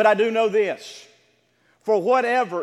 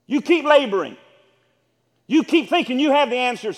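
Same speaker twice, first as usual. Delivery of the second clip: loud, raised, insistent sermon voice; pressing, emphatic preacher; forceful preaching; 5 semitones higher, 7 dB louder than usual. Acted. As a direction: hammer each phrase at the congregation. Preaching in the voice of Jesus.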